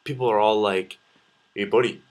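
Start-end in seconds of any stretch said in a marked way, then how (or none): 1.5-2.0 imitated aggressive Surrey accent, louder. Vancouverite imitating people from Surrey, aggressive Surrey accent. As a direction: punch it out like a Surrey local. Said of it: "it sounds really aggressive to me".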